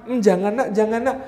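hint of a soft, worried mother; quiet mock motherly "don't"; mother gently forbidding. Mother's gentle scolding, voiced in a story.

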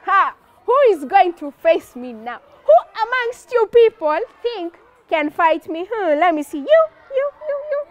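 mocking bully at the ring; giant's challenge. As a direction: loom over the crowd and point them out. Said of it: "and asks".

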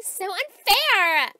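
petulant, drawn-out complaint; indignant whine. Acted. To a friend who shopped without her, indignant whine. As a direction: draw it out, whiny and put out.

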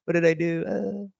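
high, bewildered groaning; high confused mumble; confused man. Retold or imitated. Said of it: "He's like".

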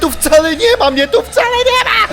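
wysoki, głośny okrzyk ze śmiechem; krzycz, śmiejąc się nerwowo; śmiech w panice. Real, not acted. Znów przyłapany, śmieje się z paniki. (gracz ze śmiechem udaje przed potworem, że go nie ma)

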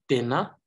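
"dena" joined smoothly with a subtle n; suppressed emphasis. Shown as a demonstration. Teacher demonstrates word reading, lightly stressed. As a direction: flow through "dena" without a pause. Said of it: "I have suppressed the emphasis".

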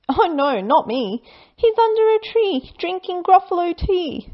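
sly snake brushing her off. Acted. Snake answering the child, high sly voice.

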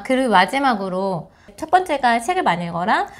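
ordinary talk

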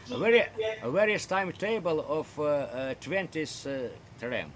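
slow, careful British-style English phrasing; British English accent. Shown as a demonstration. Teaching a Russian chat partner British English. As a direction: say it the way a Brit would ask. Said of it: "По-британски будет".

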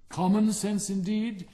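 high, loud, affronted retort; indignant. A narrator's reading. Rocket answering the Bengal Light, indignant. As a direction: throw the words back indignantly. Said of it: "said the rocket indignantly".

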